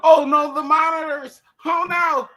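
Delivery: high, hammed-up wail; mock dismay. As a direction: cry out in fake panic. Mock dismay over monitors.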